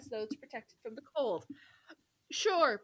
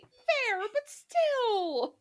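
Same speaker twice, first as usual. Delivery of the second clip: grudging; 11 semitones higher, 5 dB louder, much slower than usual. Real, not acted. Grudging concession.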